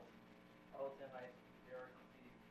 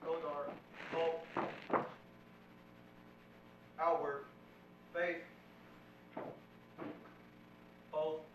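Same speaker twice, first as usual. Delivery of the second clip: drill commands; 3 dB quieter than usual. Real, not acted. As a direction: call the commands across the hall. Cadet calls drill commands.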